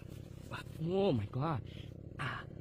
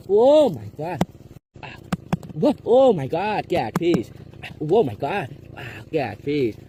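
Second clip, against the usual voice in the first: desperate excited shouting; 13 dB louder than usual. Real, not acted. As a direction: beg at the top of your lungs. Fish fighting, pleading it holds.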